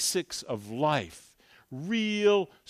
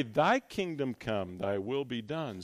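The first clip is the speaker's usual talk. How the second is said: lower, softer, reverent prayer line; hushed prayer; 7 semitones lower, 7 dB quieter than usual. Shown as a demonstration. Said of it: "We pray".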